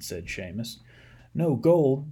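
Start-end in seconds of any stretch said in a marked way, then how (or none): 1.3-2.1 disappointed surprise. Acted. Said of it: "said a disappointed Patrick".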